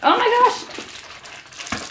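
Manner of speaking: awed gasp. Real, not acted. Finds candy.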